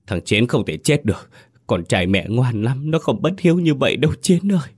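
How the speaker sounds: grieving mother cries out high; wailing grief. Acted. Mother mourns dead son to eldest son, wailing. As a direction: mourn her son, pitch climbing into a wail. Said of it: "Mẹ đừng có gào khóc nữa".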